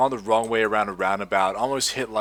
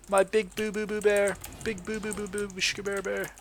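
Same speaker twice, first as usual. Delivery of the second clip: put-on baby talk; 9 semitones higher, 4 dB quieter than usual. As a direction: coo at him like a pet. Cooing at sugar bear target.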